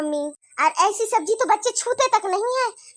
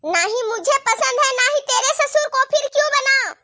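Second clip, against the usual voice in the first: scolding; 5 semitones higher than usual. Acted. Saas scolds bahu over food.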